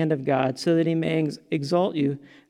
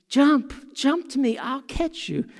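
parent calling; 7 semitones higher, 3 dB quieter than usual. Pretend. Parent voiced calling child.

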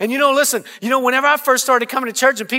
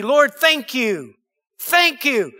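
slow thanks; slower than usual. Shown as a demonstration. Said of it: "voicing thanks prayer".

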